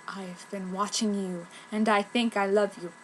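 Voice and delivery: lightly voiced lurking suitor; hint of a creepy admirer. Mysterious stranger confessing.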